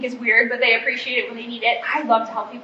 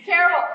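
"Terrible" said higher with a strong fall; emphatic; 6 semitones higher than usual. Real, not acted. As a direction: punch "Terrible" again. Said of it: "She's a terrible singer".

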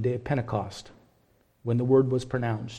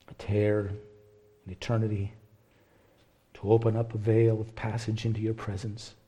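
closing prayer; 3 semitones lower than usual. Real, not acted.

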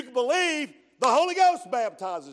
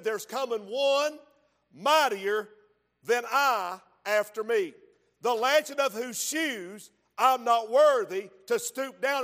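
emphatic scripture preaching. Acted. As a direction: proclaim each phrase, pausing for weight. Preacher reads John's words emphatically.

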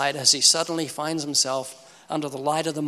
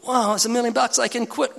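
excited wow; 7 semitones higher than usual. Retold or imitated. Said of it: "And people go".

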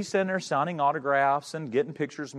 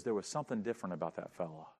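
retold tearful words; 6 semitones lower, 9 dB quieter, faster than usual. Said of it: "he begins to cry".

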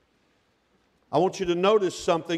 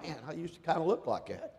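laughing aside; 4 semitones lower, 12 dB quieter than usual. Retold or imitated. And I'm like.

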